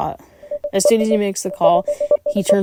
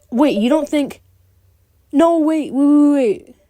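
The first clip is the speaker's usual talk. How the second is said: panicked; 8 semitones higher, 4 dB louder, slower than usual. Real, not acted. Dreading the reveal.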